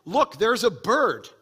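slow, lightly voiced parent to kids; a hint of an eager parent; parent pointing out a bird. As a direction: show the kids the bird, drawn out. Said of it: "And you say".

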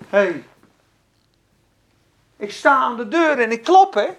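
usual speaking voice

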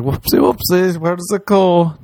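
put-on high, sing-song baby whoopsie; cutesy whoopsie. Sober hand job ending, high cutesy whoopsie. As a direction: coo it like a toddler's oops.

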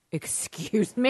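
slow, drawn-out mock affront; affronted disbelief. Student answering her acting teacher, affronted.

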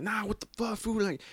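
lightly put-on tough cholo; high sneering tough-guy voice; imitating a cholo threat; mock cholo threat. Retold cholo threatening him.

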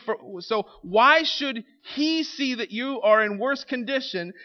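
nervous official. Pretend. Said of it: "He's like".

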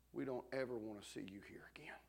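unvoiced, hard whispered refusal; cold whisper. Little sister turning the pastor away, whispering coldly. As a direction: whisper it like a closed door.

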